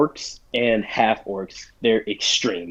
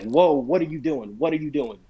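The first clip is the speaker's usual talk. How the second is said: mildly incredulous protest, slightly raised pitch; retold objection; 3 semitones higher than usual. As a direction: act out stopping a player short. Retelling how he objected to metagaming.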